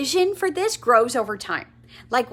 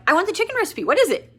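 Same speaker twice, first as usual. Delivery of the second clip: much higher, keen and urgent; eager request; 7 semitones higher, 4 dB louder, faster than usual. Retold or imitated. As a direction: beg for the recipe. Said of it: "You're like".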